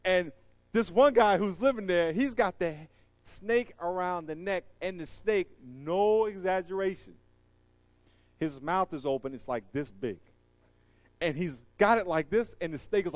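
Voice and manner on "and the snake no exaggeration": normal talking voice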